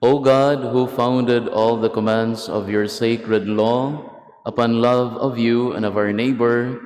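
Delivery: normal talking voice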